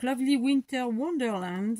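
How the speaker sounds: slow English with a French accent; careful, halting French-accented English. Real, not acted. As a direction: read the English title slowly in a French accent. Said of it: "super mal".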